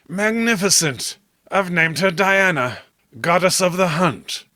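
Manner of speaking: lightly rapt, savouring the name; enraptured Robert. Acted. Robert to John about the mermaid, lightly enraptured.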